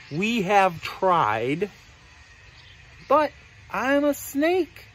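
slow, halting admission; snake character. Acted. Snake explains failed attempts to play, slow halting voice. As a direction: pause before "but", then lift the ending. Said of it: "The snake says".

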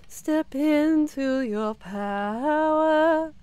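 mock motivational guru. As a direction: preach it like a self-help coach. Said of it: "I'm sorry. I had to".

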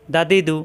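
দা, দি, দু in brisk short syllables; don't stretch any vowel in দা, দি, দু; quick short vowels. Shown as a demonstration. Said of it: "হরকতের উচ্চারণ তাড়াতাড়ি". (দা, দি, দু তাড়াতাড়ি, না টেনে)

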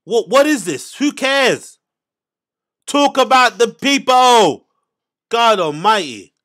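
loud, high-pitched cries of disbelief; exasperated ranting. Real, not acted. Podcaster fed up with street talk in clip, exasperated. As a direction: call out each phrase in rising exasperation.

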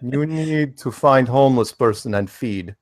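lightly put-on Russian accent; slow Russian vampire voice. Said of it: "your Russian accent".

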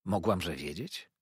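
calmly answering her mother; gentle reply. A narrator's reading. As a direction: daughter replying gently, understated. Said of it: "łagodnie odrzekła córka".

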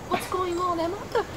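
high mock-tearful protest; retold bewilderment. Wife watching husband chat happily, mock-crying bewilderment. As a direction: wail it in exasperated disbelief, half acted. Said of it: "That was how I felt".

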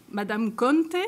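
attempted Italian accent on the name; a touch of Italian pronunciation. Shown as a demonstration. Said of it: "excusez-moi pour mon accent italien".

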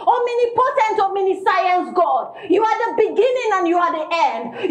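fervent church praise, rolling titles of God; hammed-up praise and worship prayer. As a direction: preach it like a revival prayer. Wife breaks into loud praise prayer.

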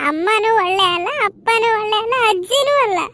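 acted child sobbing, words broken by whimpers; a hurt little boy crying it out; sulky boy sobbing that everyone lies. Sulking child cries to family.

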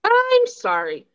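very high, drawn-out "I'm sorry"; hammed-up Canadian apology. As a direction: stretch it out in a mock-apologetic high voice.

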